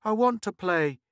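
put-on boy asking wistfully, high. Boy wanting to join the younger kids, wistful. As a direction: ask again with longing. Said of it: "showed reluctance and a certain wistfulness".

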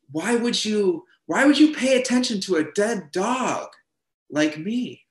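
high, halting, tripping over the words; stammering disbelief. Retold or imitated. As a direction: stammer it out, half unbelieving. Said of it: "you start to stammer out a response".

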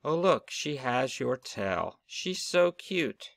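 tender admiring. Acted. Parents admiring the newborn baby.

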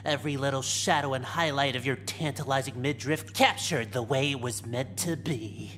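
exaggerated cartoon intonation. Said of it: "could you not talk like a cartoon character".

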